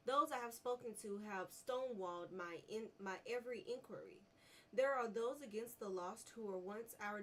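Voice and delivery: measured reading of an in-game letter; reading a note. Acted. Gamer reads a lore note aloud. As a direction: read the document steadily aloud.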